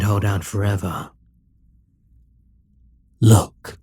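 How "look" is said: loud, slow command to look. Acted. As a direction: order the hero to stare into your eyes. Demon king hypnotizing the hero.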